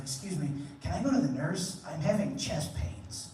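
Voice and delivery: put-on meek sick kid voice. Sick kid asks teacher.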